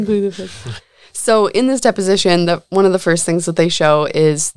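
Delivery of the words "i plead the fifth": whiny voice. Pretend. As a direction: whine it like a spoiled brat. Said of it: "I wish he sounded like a whiny little bitch".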